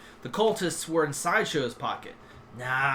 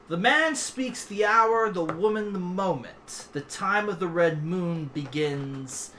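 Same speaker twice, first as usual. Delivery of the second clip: slow, measured prophecy; cryptic recital; slower than usual. Acted. Pawn quoting an overheard cultist prophecy, intoning slowly.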